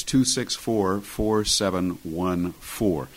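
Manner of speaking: number read out slowly; slow and clear. Shown as a demonstration. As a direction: spell out each digit slowly. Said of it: "radio host reading phone number".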